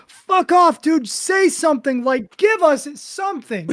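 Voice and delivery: high-pitched imitation of exasperated fans pleading; high, drawn-out mock yell; mock screaming. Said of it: "just screaming at him".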